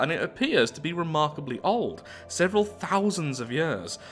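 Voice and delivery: deliberate reading with lilting emphasis; measured narrator, stressing the key words; event text narration. Acted. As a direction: read it like a science report in a story. Reads event text aloud.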